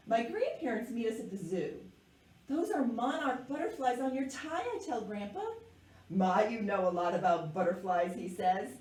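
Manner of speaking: measured, expressive picture-book narration; story reading to children. A narrator's reading. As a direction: read it aloud to young listeners with clear phrasing. Reads picture book aloud.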